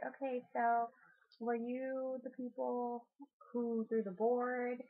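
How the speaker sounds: retold séance question in measured words; investigator questioning spirits. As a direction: ask the ghosts slowly and deliberately, lightly acted. Acts out investigators questioning ghosts.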